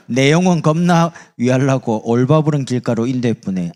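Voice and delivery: loud broad Jeolla dialect; 전라도 사투리. Shown as a demonstration. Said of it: "전라도 사람 이래 말합니다". (전라도 사투리로 힘차게)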